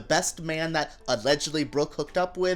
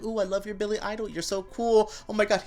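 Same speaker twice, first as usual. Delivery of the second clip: lightly voiced gushing, quick; gushing fanboy; 4 semitones higher than usual. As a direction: gush at her like a fan. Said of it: "Richard Ramirez being like".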